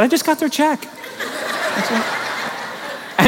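high, laughing quote of himself; chuckling retelling of his own reply. Retold or imitated. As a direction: laugh through the punchline. Retelling his wife's request.

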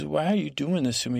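put-on mildly high-pitched teen complaint; teenage protest. Daughter protesting to her guardian, mock teenage upset. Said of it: "talk about teenage moment".

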